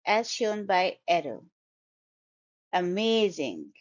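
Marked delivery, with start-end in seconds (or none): 2.7-3.7 amazing with the middle MAY stressed and drawn out; stressed second syllable. Shown as a demonstration. Teacher models Amazing for learners, stress on second syllable. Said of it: "the stress is on the second syllable".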